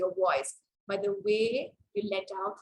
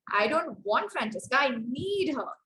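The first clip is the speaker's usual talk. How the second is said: "need" lifted and held against "want"; stress on NEED. Shown as a demonstration. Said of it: "that is where I want to place my stress".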